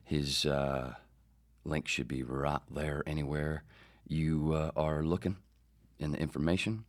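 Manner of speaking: lightly put-on Southern accent; easygoing hint of Southern US speech. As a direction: slip into a casual Southern accent. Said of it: "I just went Southern".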